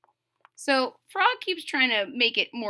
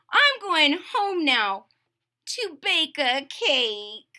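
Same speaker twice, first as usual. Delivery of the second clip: higher, slow determined toad; Toad's voice; 6 semitones higher, slower than usual. Acted. Toad heading home to bake a cake, slow and higher. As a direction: announce your plan firmly.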